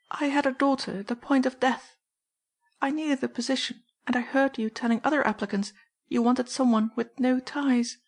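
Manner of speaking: desperate mother explaining herself; pleading housekeeper. Acted. Mrs Kinney voiced by narrator.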